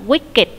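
"wicked" said in two syllables, wick-id; two-syllable pronunciation. Shown as a demonstration. Teacher showing student the adjective, "wicked" said as wick-id. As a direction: sound out the -ed in "wicked" as its own syllable. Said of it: "mình sẽ đọc nó là".

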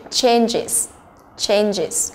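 "changes" said as change-is; two syllables in "changes", ending in "is". Shown as a demonstration. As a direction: model the -es of "changes" as a separate "is". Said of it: "cũng là is".

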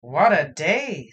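put-on slow, loud old wizard sigh. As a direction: drag it out like a weary old wizard. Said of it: "said the old wizard guy".

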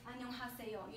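안녕하세요 in separate, evenly stressed syllables; every letter emphasized. Shown as a demonstration. Teacher shows what Koreans expect from foreigners, 안녕하세요 with every letter emphasized. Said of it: "put emphasis on every single".

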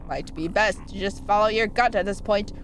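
put-on low old-timer character voice; old man voice. Old fish advising the player, old man voice. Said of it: "That's an old man voice".

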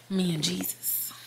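hushed whisper, just breath. Real, not acted. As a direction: breathe it like a secret. Intimate confession about Jesus time.

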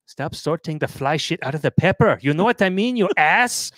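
a touch of exasperated scolding; mock scolding wife. Wife scolding her stubborn husband, mildly exasperated. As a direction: snap at him like a fed-up partner.

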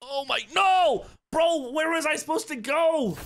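high, drawn-out wail of protest; frustrated panic. Real, not acted. Gamer who can't tell where to go, frustrated panic. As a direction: wail it high, like you are hopelessly lost. Lost the way in the game.

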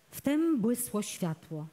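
ordinary delivery

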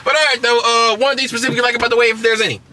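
upbeat radio host delivery; like a radio DJ giving out tickets; radio announcer voice. Real, not acted. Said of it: "talking like a radio station".

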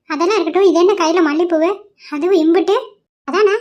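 a grandmother teasing her grandson about the flowers; nosy grandmother. Acted. Grandmother questions the jasmine. (ஆர்வமாக கேட்கும் பாட்டி)

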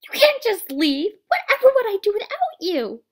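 high, loud, desperate plea; loud pleading. Acted. A character begging someone not to leave, loud and high. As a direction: cry out to stop them leaving.

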